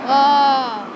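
loud, held "ah", short of a scream; half-hearted yell. Shown as a demonstration. Boy shows friend a yell, not his loudest. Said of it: "I'm raising my voice".

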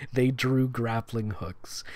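slow unvoiced whisper. Real, not acted. Reading the chase scene aloud, whispered. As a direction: hush it like a tense moment.

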